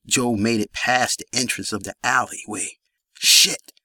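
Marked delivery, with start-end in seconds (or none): 3.1-3.7 muttered curse. A narrator's reading. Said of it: "Jamel muttered".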